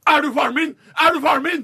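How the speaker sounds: put-on high, loud baby shriek; high screechy baby voice; screaming newborn. A narrator's reading. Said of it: "før han skriker".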